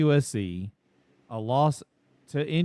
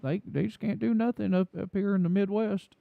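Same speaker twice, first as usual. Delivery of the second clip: mock Southern fan; 5 semitones higher than usual. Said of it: "That was a little too Southern sounding".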